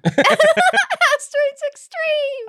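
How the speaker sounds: high, slow, laughing title call; hyped announcer voice. Pretend. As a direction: boom it out like a trailer voiceover.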